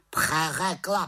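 high, loud croaked word; croaking raven. Acted. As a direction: snap the word back like a raven. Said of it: "krákal havran".

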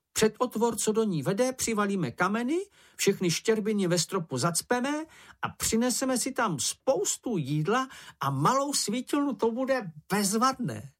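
high, eager Sniff voice, bragging about his secret; a small animal's high, showing-off chatter; high squeaky voice, teasing and proud; boastful little creature. A narrator's reading. Sniff plans the cave.

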